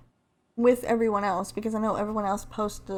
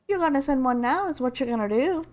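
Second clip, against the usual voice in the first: higher, insistent character voice; Lifeline impression; 4 semitones higher than usual. Lifeline ordering Bangalore to send a team, insistent. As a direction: lay down a demand as the game heroine. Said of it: "trying to do my best Lifeline impression".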